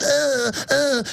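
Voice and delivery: imitated dehumanized groaning; mimicked trendy noise. Trendies making their noise, mock moaning. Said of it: "So they make the, you know, the noise".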